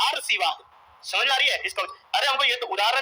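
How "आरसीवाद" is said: आरसीवाद, with r straight after the opening long aa; demonstrated misreading आरसीवाद, opening on aar; misspelling read out. Shown as a demonstration. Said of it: "इसका उच्चारण क्या होता है".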